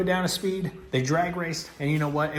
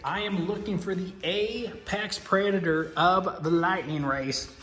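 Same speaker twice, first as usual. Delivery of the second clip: put-on Southern accent. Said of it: "where that Southern accent came from".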